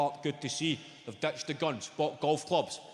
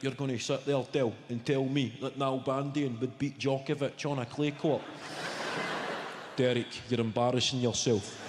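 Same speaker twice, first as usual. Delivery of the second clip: low, mock-serious pub argument; lightly voiced men in a heated debate; low voice, earnest mock dispute; arguing pub guys; 4 semitones lower than usual. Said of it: "Guys arguing long into the night".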